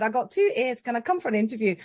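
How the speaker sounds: light mock Scottish accent; attempted Scottish accent. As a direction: try on a slight Scottish lilt. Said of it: "attempted a Scottish accent and said".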